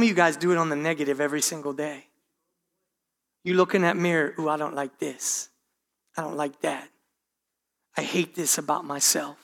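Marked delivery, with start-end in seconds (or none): 4.4-9.4 soft, gloomy self-talk. Retold or imitated. Mirror self-talk, negative.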